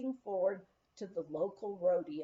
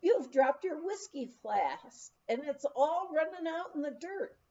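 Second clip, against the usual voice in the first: mild mock yell; 6 semitones higher than usual. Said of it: "the man yelled to the clown".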